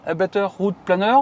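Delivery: English name in a thick French accent; French-accented attempt at English; bad English accent. Real, not acted. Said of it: "l'accent un petit peu tout moisi".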